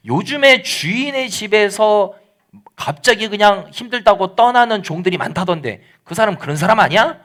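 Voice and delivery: lightly mocking, acted-out insinuation; sneering sarcasm. Nabal sneering at David as a runaway servant, mildly sarcastic. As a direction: needle them with a leading question. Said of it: "이렇게 비아냥거린 겁니다".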